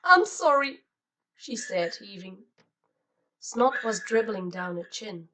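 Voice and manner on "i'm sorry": sobbing apology. A narrator's reading. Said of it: "whimper and scream".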